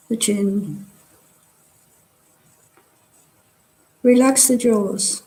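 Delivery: calm body-scan guidance with long pauses between phrases; guided meditation. Real, not acted. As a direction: guide them unhurriedly, leaving space after each phrase. Leads a meditation.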